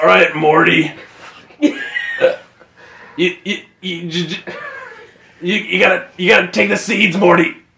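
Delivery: swooping, animated cartoon voice with wide pitch swings. Doing the voice another player just compared them to: Rick from Rick and Morty voice. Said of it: "Kinda sounded like Rick from Rick and Morty".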